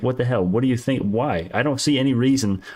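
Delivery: normal talking voice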